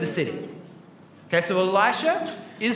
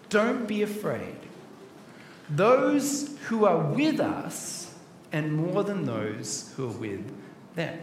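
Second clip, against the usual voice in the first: slow, softer, steady comfort; calm reassurance; 4 semitones lower, 5 dB quieter, slower than usual. Acted. Elisha calming his servant, slow and soft. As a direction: soothe a scared servant slowly.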